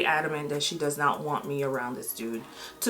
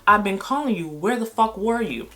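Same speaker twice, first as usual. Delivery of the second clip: raised, heated questioning; angry demand; 5 semitones higher than usual. Retold or imitated. Boyfriend says he was out all night, angry raised demand. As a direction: press him hard for answers.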